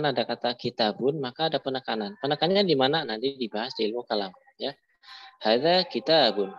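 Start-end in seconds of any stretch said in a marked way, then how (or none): 5.4-6.5 hadza pressed on the first syllable, ha-dza; stress on hadza. Shown as a demonstration. Teacher models the stress of hadza for the class. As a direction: lean hard on the ha of hadza. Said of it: "kata hadza ditekan di haknya".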